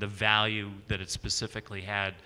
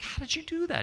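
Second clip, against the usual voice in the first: amazed question; 4 dB quieter, faster than usual. Retold or imitated. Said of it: "It's like".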